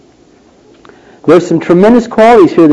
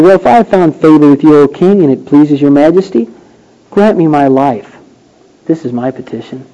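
dignified plea; 3 semitones lower than usual. Pretend. Esther pleading to the king, dignified. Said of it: "in a very dignified way".

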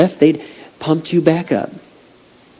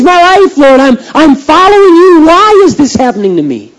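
desperate crying prayer; 9 semitones higher, 7 dB louder than usual. Retold or imitated. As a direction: beg God through tears, voice climbing and breaking. Retold tearful prayer in woods.

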